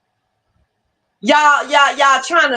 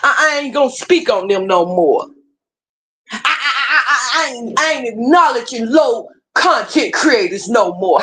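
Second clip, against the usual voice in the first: mocking stammer. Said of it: "how many videos have you made".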